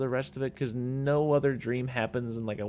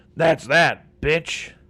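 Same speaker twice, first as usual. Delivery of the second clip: very loud, booming horror movie killer voice; 4 semitones higher, 12 dB louder than usual. Doing a Freddy impression of a catchphrase for the show. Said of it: "should I do a Freddy impersonation".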